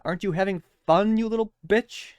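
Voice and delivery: sarcastic rhetorical dig; mock taunt. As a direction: needle the audience with fake sweetness.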